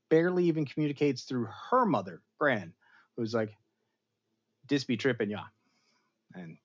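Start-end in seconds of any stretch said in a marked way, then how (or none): 4.7-5.5 badly faked Jamaican accent; lightly put-on, hammy Jamaican accent; terrible Jamaican accent. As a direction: do a bad Jamaican accent for the gran. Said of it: "that was my terrible Jamaican accent".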